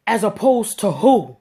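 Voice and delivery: slow, loud, greasy "As opposed to who?"; greasy sneer. Retold or imitated. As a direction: drag it out with a smug sneer. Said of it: "real greasy".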